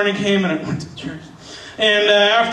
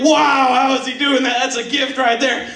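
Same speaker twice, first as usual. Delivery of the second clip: amazed; 6 semitones higher than usual. Retold or imitated. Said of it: "I'm like".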